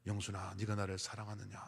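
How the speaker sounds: low, soft divine question; lightly voiced call from God. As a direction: speak as God, low and gentle. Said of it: "하나님 음성도 들었고".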